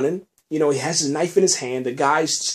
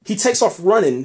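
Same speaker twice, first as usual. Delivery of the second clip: higher and punchier retelling; excited emphasis; 5 semitones higher, 3 dB louder than usual. Shown as a demonstration. Recapping the show's big moment, excited. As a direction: hype it up for the viewers. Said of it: "Now, check this out".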